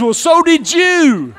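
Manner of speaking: loud, high comeback through a laugh. Pretend. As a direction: fire it back with a chuckle. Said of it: "Look back at him and says".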